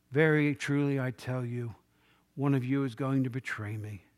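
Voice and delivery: low, subdued and grave; troubled in spirit. Retold or imitated. Jesus telling his disciples of the betrayal, troubled and subdued. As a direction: say it quietly, weighed down by what is coming. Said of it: "he was troubled in spirit".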